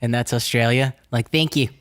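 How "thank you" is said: Australian accent demo. Shown as a demonstration. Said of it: "you turn A's into double E's".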